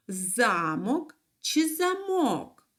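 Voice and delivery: замок slowly stressed first on за, then on мок; contrasting stress. Shown as a demonstration. Teacher giving children two look-alike words, contrasting stress. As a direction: draw out the stressed syllable of each замок. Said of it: "пишуться повністю однаково".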